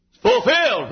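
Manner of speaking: high, ringing preacher's cry; shouted proclamation. Acted. Preacher repeating Jesus' word, shouted proclamation. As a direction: burst out with it, high. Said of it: "When he shouted".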